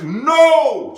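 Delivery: high, loud retold cry of protest; re-enacted furious yell; pissed-off shout. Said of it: "So now I'm pissed now".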